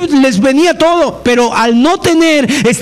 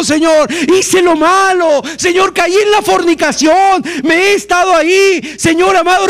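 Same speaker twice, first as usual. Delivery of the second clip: contrite outcry; 3 semitones higher than usual. Pretend. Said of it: "un verdadero clamor".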